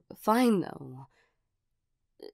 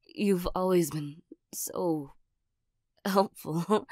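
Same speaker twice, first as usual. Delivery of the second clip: whispering; slower than usual. Acted. Hasty flattering aside.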